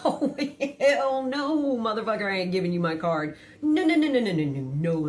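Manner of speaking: loud, high mock outburst; emphatic refusal. Wife refusing husband her bank card, loud outburst. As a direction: shout it down, no way.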